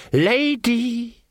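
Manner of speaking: slow, sneering elf voice; mocking elf. Elf taunting Magrat in the dark, slow and sneering. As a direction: taunt her lazily, savouring it.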